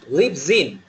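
"lives in" joined as "lip-zin"; teacher's drill linking "lives" onto "in"; linked lives in. Shown as a demonstration. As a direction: model "lip-zin" as one word, falling at the end. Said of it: "repeat after me".

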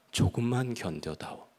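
God pleading with Yubi, 조금만 gently stressed; gentle plea. Retold or imitated. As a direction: ask him to endure, 조금만 leaned on gently. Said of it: "주님의 음성을 들은 거죠".

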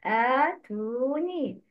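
آتوني with long "aa", "uu" and "ii"; long vowels. Shown as a demonstration. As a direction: draw out every vowel in آتوني. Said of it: "Make long vowel فتحة". (teacher models the long vowels)

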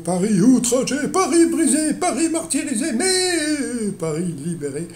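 mock grand wartime oration; de Gaulle impression. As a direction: declaim «Paris outragé» like a wartime general. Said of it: "qui s'écria dans un discours".

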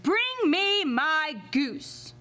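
slow, drawn-out giant command; giant shouting. Acted. Giant seated, calling to the maid, mild shout. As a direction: order the goose like a lazy giant. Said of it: "he shouted".

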